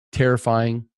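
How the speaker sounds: breathy whisper of remembered fear; hushed, almost voiceless. Real, not acted. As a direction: let the word drop to a whisper. Describing going into prison.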